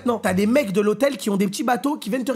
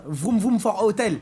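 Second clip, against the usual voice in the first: laughing; slower than usual. Real, not acted.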